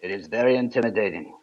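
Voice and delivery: quick, a hint of Russian accent; mock Russian accent. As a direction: rattle it off in a light Russian accent. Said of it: "I don't have a Russian accent".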